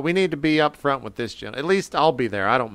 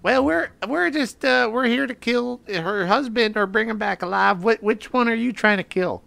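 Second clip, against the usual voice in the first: raised, modulated-sounding voice, hesitant; high-pitched Higgins; 4 semitones higher than usual. Acted. Player as Higgins explaining the job to his rival, high-pitched. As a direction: keep the silly high voice while explaining. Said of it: "High pitched".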